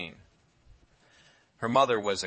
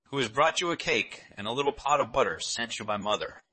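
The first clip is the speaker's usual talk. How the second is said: put-on a big wolf putting on a little girl's voice, a bit louder; wolf faking a girl's voice; 4 semitones higher, 4 dB louder than usual. Wolf at the door pretends to be the granddaughter, mock girlish voice. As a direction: lightly imitate the child. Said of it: "counterfeiting her voice".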